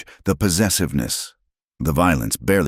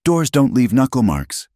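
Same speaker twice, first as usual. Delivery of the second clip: higher, louder, firm and hard; hardened voice; 9 semitones higher, 4 dB louder than usual. Acted. Old witness hardening at the bruises, firm. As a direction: set the words down like stone. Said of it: "The elderly woman's voice hardened".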